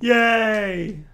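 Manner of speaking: loud, high cheer; a big happy cheer. Real, not acted. Cheering about snow surplus.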